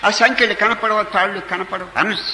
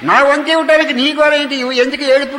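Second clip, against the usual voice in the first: higher, louder insistence; demanding share; 4 semitones higher, 3 dB louder than usual. Acted. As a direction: demand what is owed. Devotee demands his share.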